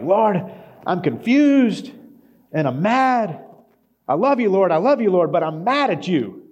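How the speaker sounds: loud, raw, pleading cry to God; impassioned yelling prayer. Retold or imitated. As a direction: pour out anger and love at the top of your voice. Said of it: "he's just yelling".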